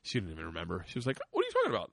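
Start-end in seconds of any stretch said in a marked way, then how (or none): 1.3-1.9 put-on very high little-kid voice; squeaky, clueless child; imitated puzzled child. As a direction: toss it off high, like an oblivious kid. Voicing daughter who forgot.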